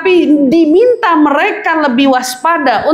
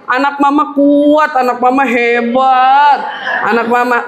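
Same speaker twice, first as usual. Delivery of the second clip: praising mother; 4 semitones lower than usual. Retold or imitated. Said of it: "dia bilang".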